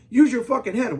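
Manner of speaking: exasperated shout. Real, not acted. Berating viewers.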